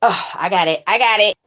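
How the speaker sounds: loud triumphant cry; excited. Real, not acted. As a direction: burst out with relief. Jar finally opens.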